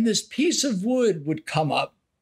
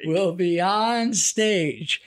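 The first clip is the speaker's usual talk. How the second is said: carnival barker; 2 semitones lower, slower than usual. Retold or imitated. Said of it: "carnival barker voice".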